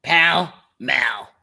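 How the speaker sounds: put-on old lady voice. Brenda voice, excited about the twins.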